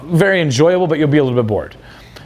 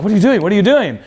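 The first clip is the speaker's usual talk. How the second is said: high, louder squeal of disbelief; shocked girl; 6 semitones higher, 3 dB louder than usual. Retold or imitated. Girl startled as he calls someone over, mock shocked squeal.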